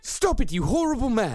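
mock shy denial. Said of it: "Just the women go".

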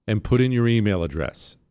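slow, stretched-out radio intro; show announcer. Real, not acted. Host opening the show on Thursday, announcer style. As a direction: announce the show with drawn-out words.

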